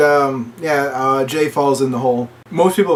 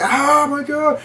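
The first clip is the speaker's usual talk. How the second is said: high, drawn-out retold cry of shock; mock horror; 13 semitones higher, much slower than usual. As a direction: imitate a horrified onlooker without really shouting. Retold reaction to woman crushed.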